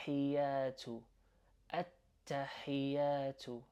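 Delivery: hiyatu with an emphasized breath on the H; breathy H in hiyatu. Shown as a demonstration. Teacher showing learners the H sound in hiyatu, breathy and slow. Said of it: "emphasize that kind of breath sound".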